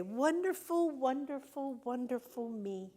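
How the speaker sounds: rising, glowing wonderful, then settling; joyful affirmation. Shown as a demonstration. Speaker leading the audience in self-love, joyfully. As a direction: say it like you adore yourself. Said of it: "hold ourselves and say".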